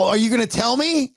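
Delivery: high-pitched imitation of a slurring mother; mock a woozy mom demanding an answer. Mother prodding her son on the phone, slurring. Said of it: "She's slurring her speech".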